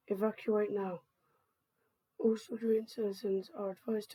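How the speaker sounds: measured, formal evacuation broadcast read; emergency announcement. Acted. Government announcer warning citizens to evacuate the island, formal announcement. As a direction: deliver an official public warning.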